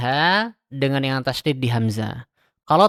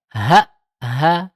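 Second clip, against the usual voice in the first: second "ha" lifted a little in pitch, louder; "Ha, ha" with a light nabr lift; nabr rise; 2 semitones higher, 7 dB louder than usual. Shown as a demonstration. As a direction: raise the voice slightly on the stop. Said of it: "harus ada kayak naber gitu".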